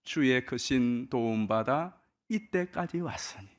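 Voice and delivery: hymn line read out slowly and evenly; 찬송 가사를 천천히 읊조리듯; slow lyric recital. Shown as a demonstration. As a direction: recite the hymn words slowly, savoring each. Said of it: "이 절에 나오는 가사지 않습니까".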